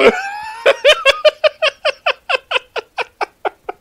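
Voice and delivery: loud high burst of laughter; real shouted laugh; big real laugh. Real, not acted. Reacts to the funny line.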